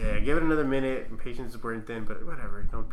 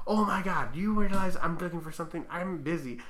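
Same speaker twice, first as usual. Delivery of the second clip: slightly raised, put-upon retelling; mock exasperation; 4 semitones higher than usual. Driver to guard about being busy, mock exasperated. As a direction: imitate a busy driver's complaint.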